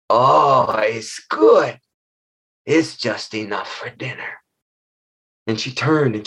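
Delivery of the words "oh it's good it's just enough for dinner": lightly voiced monster. Monster weighing her basket of children, low gloating voice. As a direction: savor the catch like a hungry giantess. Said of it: "Tanakwa felt the basket".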